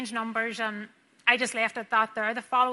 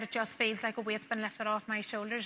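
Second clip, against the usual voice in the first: weak, sick voice; 7 dB quieter than usual. Retold or imitated. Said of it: "he could hardly talk".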